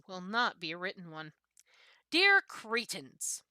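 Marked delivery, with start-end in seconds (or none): 2.1-3.4 slow, drawn-out and louder, dripping with scorn; contemptuous salutation. Acted. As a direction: savour the insult as you open the letter. Sneering salutation opening a complaint letter.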